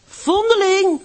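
high, loud jeering call, falling; boys calling out. Acted. The oil merchant's boys taunting Hanneske on the way to school, shouting. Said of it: "riepen de jongens van de olieboer".

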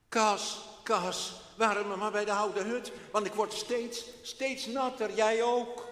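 put-on loud, high boy calling his dog; a wet child complaining aloud. Boy Freek calling Castor in the rain, loud.

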